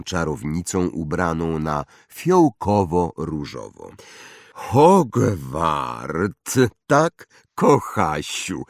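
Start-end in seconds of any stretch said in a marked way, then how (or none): 4.5-8.6 lightly voiced kindly witch; a hint of a cosy seamstress; Madame Malkin. (lekko zagrany głos miłej krawcowej)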